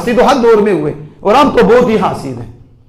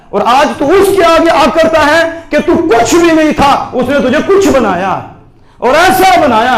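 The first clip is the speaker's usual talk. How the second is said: raised preaching cry against arrogance; preaching shout; 5 semitones higher than usual. Real, not acted. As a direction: thunder it at the proud listener. Preacher rebukes listener's arrogance.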